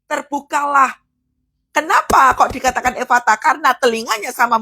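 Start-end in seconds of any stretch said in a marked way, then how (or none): 0.0-1.0 ringing order, pitched up; commanding prayer. Shown as a demonstration. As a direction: call it out as a command. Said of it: "Jadi doa itu seperti Tuhan Yesus ini".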